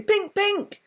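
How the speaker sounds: high chirping bird cry; loud bird call. A narrator's reading. Chaffinch calling to Miggy about the cloak, a high chirp. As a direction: call it out like a tiny excited bird. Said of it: "he called loudly".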